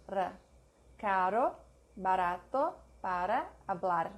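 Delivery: R in "Caro, barato, para" tapped once; light single tongue flap on the R of "para". Shown as a demonstration. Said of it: "A single tongue flap".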